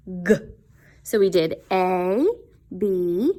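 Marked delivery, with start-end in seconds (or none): 0.1-0.4 "g." as a short hard voiced g; letter sound g. Shown as a demonstration. Teacher showing kids the G sound, a hard "g". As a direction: pop the hard "g". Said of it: "G says".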